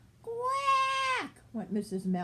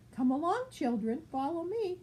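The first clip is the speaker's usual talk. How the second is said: higher, bright call to the brood; mother duck calling; 7 semitones higher than usual. Acted. Mother duck calls her ducklings to follow. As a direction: round up the little ones.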